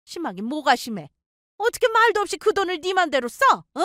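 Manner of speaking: put-on high, sharp scolding older woman; angry mother-in-law. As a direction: snap at the daughter-in-law from the first word.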